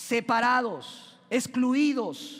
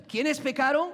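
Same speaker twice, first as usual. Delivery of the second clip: louder prompt; 4 semitones higher, 3 dB louder than usual. Shown as a demonstration. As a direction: call out, demanding the answer. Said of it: "Yo no escuché aquí".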